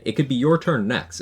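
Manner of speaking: high, smug billionaire promise; smug wealthy tycoon. Retold or imitated. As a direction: dangle the jackpot like a tycoon. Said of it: "My billionaire impression".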